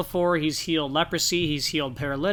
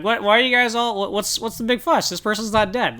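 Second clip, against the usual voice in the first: higher, mock-puzzled voice at a funeral; baffled funeral-goer; 5 semitones higher than usual. Imagined guest questioning mourners at casket, higher and mock-puzzled. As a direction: play the clueless guest asking what the fuss is. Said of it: "walking up to the casket and be like".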